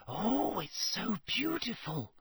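a hushed gasp of wonder; whispered. Acted. Girl admiring the unicorn, hushed and awed. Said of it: "whispered Lavender Brown".

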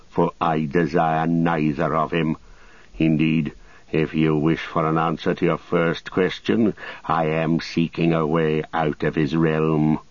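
lightly voiced haughty wizard; Saruman. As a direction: answer with cool, measured disdain. Story figure Saruman speaks.

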